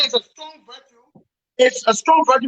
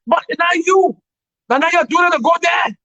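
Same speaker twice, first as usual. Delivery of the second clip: indignant shout; 5 semitones higher than usual. Real, not acted. Scolding ministers on tour.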